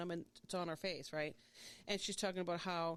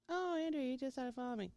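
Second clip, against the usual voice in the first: surprised realisation; 6 semitones higher than usual. Real, not acted. Spots friend's follow on phone.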